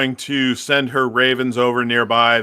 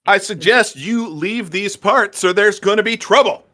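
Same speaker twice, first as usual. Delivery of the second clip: threat; 8 semitones higher, 4 dB louder than usual. Acted. Threatening hobgoblins in character.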